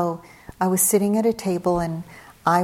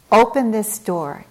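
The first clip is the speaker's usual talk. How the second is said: mildly raised, firm order; retold stern demand; 3 semitones higher, 6 dB louder than usual. Father ordering daughter to open up, mildly raised voice. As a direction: demand it loudly, as a retold quote.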